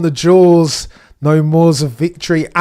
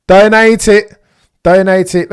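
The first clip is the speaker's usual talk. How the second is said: excited urging; 6 semitones higher, 9 dB louder than usual. Real, not acted. Urging team to pit driver.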